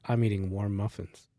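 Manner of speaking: deadpan retold deep voice; deep-voiced dude. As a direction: lightly imitate a very deep-voiced guy. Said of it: "like, the deepest voice".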